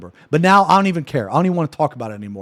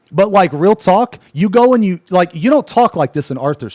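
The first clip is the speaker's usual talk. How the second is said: loud, raised, insistent scolding; pissed off; 4 semitones higher, 4 dB louder than usual. Real, not acted. Streamer confronting chat about their behavior, pissed off. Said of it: "That actually pissed me off".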